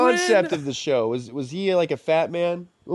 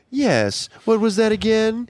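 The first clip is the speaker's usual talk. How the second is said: Siri voice; 2 semitones higher, slower than usual. Retold or imitated. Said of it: "most people do the Siri voice now".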